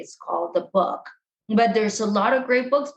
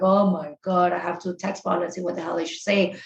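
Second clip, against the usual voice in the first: inner panic; 5 semitones lower than usual. Retold or imitated. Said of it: "inside you're freaking out".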